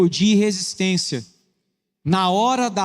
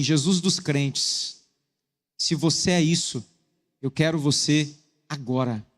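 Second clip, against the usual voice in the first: baixo, lento e grave, choro contido; oração chorosa recontada; 4 semitones lower, 3 dB quieter, slower than usual. Retold or imitated. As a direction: reze devagar e baixinho, imitando quem começou a chorar. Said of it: "comecei a chorar e disse assim". (oração comovida, em voz baixa e pausada)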